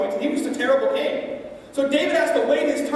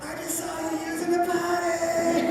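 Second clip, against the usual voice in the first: talking smack; 4 semitones higher, 6 dB quieter than usual. Pretend. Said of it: "we might talk some smack".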